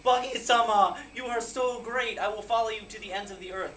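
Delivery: adoring follower. Retold or imitated. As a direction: gush like a devoted pirate underling. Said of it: "everyone's following him".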